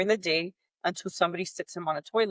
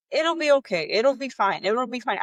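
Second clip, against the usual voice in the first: dismissive nurse; 5 semitones higher than usual. Retold or imitated. Nurse brushing off the breastfeeding mother, mock soothing. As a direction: imitate the nurse waving her worries away.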